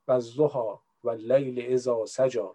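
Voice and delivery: Quran verse with Persian intonation, slow, low; Persian accent. Shown as a demonstration. Speaker showing their preferred way to recite, Persian accent. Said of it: "با لهجهٔ فارسی دوست دارم بخونم".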